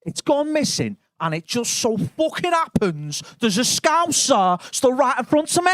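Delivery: accusing Manc lad. Retold or imitated. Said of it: "He went".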